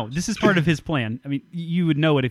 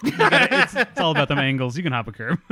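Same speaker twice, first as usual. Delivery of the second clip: imitating Winston; 5 dB louder than usual. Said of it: "Winston's like".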